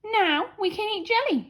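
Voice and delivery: proclaimed. A narrator's reading. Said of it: "she proclaimed".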